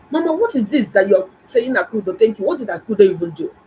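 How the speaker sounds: high, scornful mimicry of the sister; mock her dismissive tone, pitched high; mocking the ungrateful girl. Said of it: "She said".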